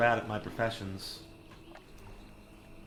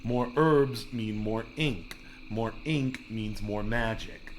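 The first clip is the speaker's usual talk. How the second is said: catchphrase; slower than usual. Shown as a demonstration. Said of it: "'Cause what do I always say?".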